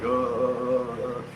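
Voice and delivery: slow, wavering uh-uh noise; drawn-out mock trembling groan; imitated nervous shaking. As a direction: mimic stammering with the shakes. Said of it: "'cause I'm shaking".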